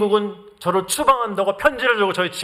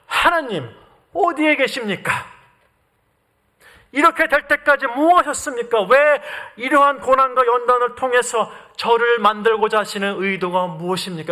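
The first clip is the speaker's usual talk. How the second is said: raised-pitch appeal that drops at the end; questioning God. Acted. Preacher voices believers' questions to God, mildly protesting. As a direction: press the questions upward, then let them fall. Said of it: "이렇게 질문합니다".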